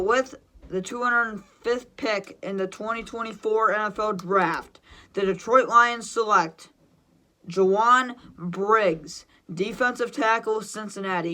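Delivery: slow, measured announcer delivery, names set apart; formal pick read-out, name drawn out; draft pick announcement. Pretend.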